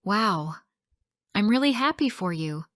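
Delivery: gently delighted congratulations; smiling happiness. Shown as a demonstration. To friend with a scholarship, smiling and happy. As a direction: say it with a wide smile. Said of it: "You smile wide and say".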